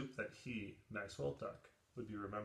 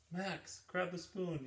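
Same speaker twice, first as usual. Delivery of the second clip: higher, louder urgent yell to Max; 8 semitones higher, 4 dB louder, slower than usual. Acted. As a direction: shout so Max can hear you in the pot. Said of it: "yelled Dakota".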